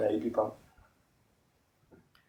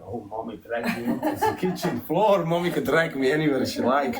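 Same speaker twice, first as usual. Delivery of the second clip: higher, giggling through a mock plea; laughing mock plea; 4 semitones higher, 4 dB louder than usual. Host teasing girlfriend on live, laughing mock plea.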